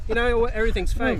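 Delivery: imitating Trump. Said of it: "so I just figured I'd imitate Trump".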